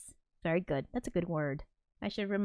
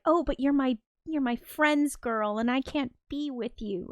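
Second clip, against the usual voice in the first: mock reluctant lover; 5 semitones higher than usual. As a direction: imitate a lovelorn friend protesting weakly. Voices a reluctant lover in mock anguish.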